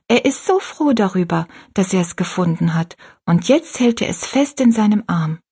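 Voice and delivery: leicht höher gesprochenes Mädchen; kindliche Rosalie. Acted. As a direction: ein stolzes Kind erklärt sein Bild. Rosalie explains the picture. (Rosalie erzählt der alten Frau stolz vom Bild, leicht höher)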